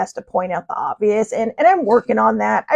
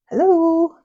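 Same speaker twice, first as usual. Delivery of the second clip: mock incredulous hello; 7 semitones higher than usual. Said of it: "I'm all like".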